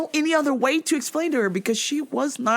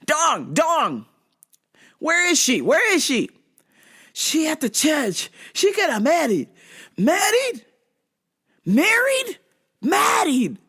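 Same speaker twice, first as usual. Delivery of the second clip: hammed-up Asian-accented back-and-forth; mock Asian accent; 4 semitones higher than usual. Quoting a film scene about Dong, mock Asian accent. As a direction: exaggerate each word in mock Asian English.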